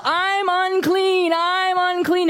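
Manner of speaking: high mock cry of I'm unclean; lightly acted leper calling I'm unclean. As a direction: call out like an outcast warning others. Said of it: "they had to yell".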